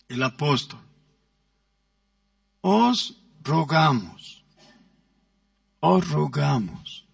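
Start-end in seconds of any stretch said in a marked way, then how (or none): 2.6-7.1 gentle plea. Shown as a demonstration. Preacher demonstrating to the congregation how a gentle plea sounds. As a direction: plead gently, drawing out each word. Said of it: "¿Cómo es la entonación de un ruego?".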